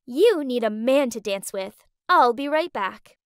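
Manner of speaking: slurring a little, slow and tipsy; a tipsy friend's slightly drunk voice. Retold or imitated. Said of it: "in a tipsy voice said".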